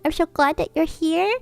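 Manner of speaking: high, bright hello; delighted greeting. Real, not acted. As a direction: welcome her friend warmly. Greets arriving friend.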